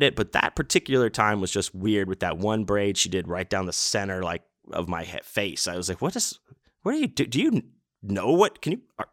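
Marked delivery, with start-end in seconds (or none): 6.0-9.1 much higher, bewildered voice; a squeaky puzzled plea, laughing; mock confused self. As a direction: play yourself baffled at the braider, laughing at the end. Asking braider, laughing.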